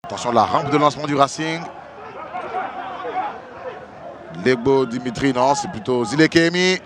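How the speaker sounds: loud, excited play-by-play; excited goal call. Real, not acted. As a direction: roar through the chance.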